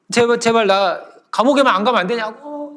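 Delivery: acted sobbing appeal; tearful begging. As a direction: plead like a wailing child. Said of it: "울었어요".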